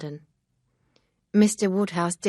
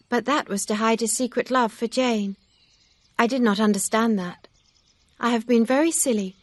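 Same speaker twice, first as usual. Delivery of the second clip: higher, louder voice for a distressed Emma; Emma, upset young woman; 5 semitones higher, 5 dB louder than usual. A narrator's reading. Emma confessing her foolishness to Mister Knightley, higher and distressed.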